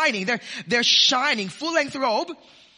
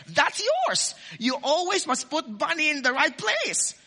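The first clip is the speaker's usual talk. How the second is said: put-on firm parent to child; 4 semitones higher than usual.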